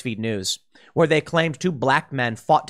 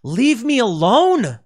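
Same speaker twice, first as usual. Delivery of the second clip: slow, drawn-out plea that swells louder and higher at the end; fed-up outburst; 3 semitones higher, 3 dB louder, much slower than usual. Retold or imitated. Fed-up people snapping at critics, slow and rising to a loud plea. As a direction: voice the public finally snapping. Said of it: "people finally snapped and said".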